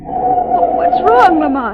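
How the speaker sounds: high frightened gasp of alarm; startled and scared, voice leaping up; alarmed cry. Acted. Margot startled by a body on the road, alarmed cry.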